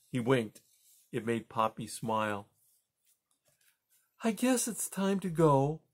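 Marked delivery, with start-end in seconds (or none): 4.2-5.8 high chirpy squeak; a bright little squeak, much higher. A narrator's reading. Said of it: "in her best chippy, chirpy vo-, squeak".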